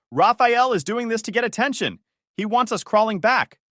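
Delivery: high, loud accusing shout; angry shouting. A narrator's reading. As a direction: shout it in outrage at the family. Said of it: "slammed his hand on the counter and shouted".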